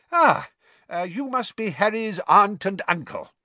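high, eager greeting; genial wizard father, flustered. A narrator's reading. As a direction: greet strangers with awkward eagerness. Mister Weasley greets the relatives.

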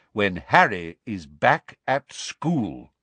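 slow, low, calm insistence; firm Dumbledore. Acted. Headmaster refuses to explain yet, slow and calm. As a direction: repeat it patiently. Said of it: "repeated Dumbledore".

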